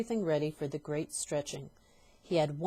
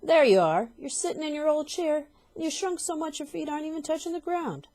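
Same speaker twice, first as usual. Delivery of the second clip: very loud, high triumphant shout; shouted accusation; 10 semitones higher, 7 dB louder than usual. Acted. Husband pointing at his wife, shouting triumphantly. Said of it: "pointed at her and shouted".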